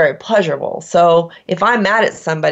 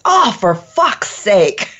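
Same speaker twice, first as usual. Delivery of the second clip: slow, hammed-up English exasperation; prim and proper English exclamation; English accent; slower than usual. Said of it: "a bit of an English accent".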